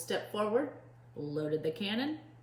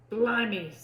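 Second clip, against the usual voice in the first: a louder pirate exclamation; crying out; 4 semitones higher, 6 dB louder than usual. A narrator's reading. Pete startled by the rascal, louder cry. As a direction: cry out in mock shock. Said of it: "cried Pete".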